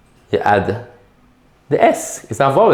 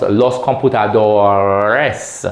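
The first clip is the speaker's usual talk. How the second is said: drawn-out plural; 3 semitones lower, slower than usual. Shown as a demonstration. Teacher models the plural slowly.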